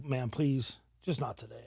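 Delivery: pleading through tears. Retold or imitated. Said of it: "And I start crying".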